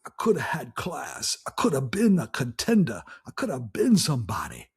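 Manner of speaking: put-on a light Brando On the Waterfront accent; lightly imitating the Brando New York accent; Marlon Brando. Quoting the contender scene in a mild Brando accent. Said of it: "that accent where, where he said".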